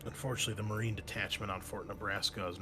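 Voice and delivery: game master narration. Acted. Game master describes the war-torn city, narrating. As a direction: draw out the description of the ruins.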